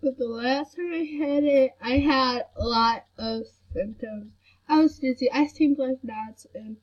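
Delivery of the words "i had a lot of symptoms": crying. Real, not acted. Crying over symptoms.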